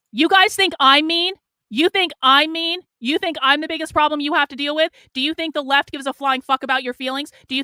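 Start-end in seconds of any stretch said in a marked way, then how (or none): 0.1-4.5 angry challenge. Real, not acted. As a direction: fling the question back at them, loud. Challenging critics who call her mean.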